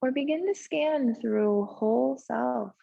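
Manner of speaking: unhurried yoga relaxation voice with long pauses; slow-paced, settled breathing guidance; guided meditation. Real, not acted. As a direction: ease them gently into stillness, leaving space between phrases. Leads meditation in the pose.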